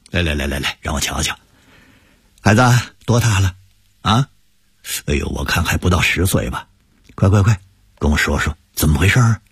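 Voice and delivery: put-on an old shopkeeper coaxing a child; kindly elder uncle. Elder uncle greets the boy.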